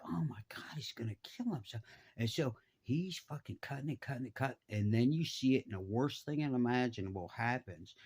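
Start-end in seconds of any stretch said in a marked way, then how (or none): 0.0-1.8 softer, partly whispered alarm; retold hushed dismay. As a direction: act out onlookers fretting under their breath. Retold hushed horror of the watchers.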